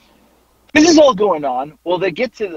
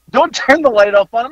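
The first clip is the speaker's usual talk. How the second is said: slightly raised, coaxing mock plea; retold mild plea; 5 semitones higher than usual. Bystander to the wife about the light, mildly pleading. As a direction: lightly plead for him, not yelling. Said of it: "I think I said".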